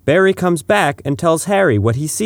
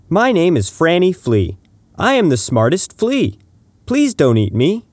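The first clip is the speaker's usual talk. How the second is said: a light, higher tiny flea voice; Franny Flea; 5 semitones higher than usual. Acted. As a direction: play a small insect pleading, a bit higher. Flea introduces herself, pleading.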